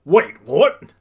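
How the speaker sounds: loud, high bewildered question; confused. A narrator's reading. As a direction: blurt it, caught off guard. All Might confused by attack.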